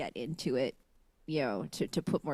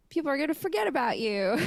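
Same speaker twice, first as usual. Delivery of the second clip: shaky sigh; 12 semitones higher, 5 dB louder than usual. Real, not acted. Near tears about being forgotten.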